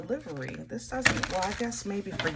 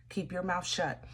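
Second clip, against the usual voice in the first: whisper; 6 dB quieter than usual. Shown as a demonstration. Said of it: "I'm gonna say it again".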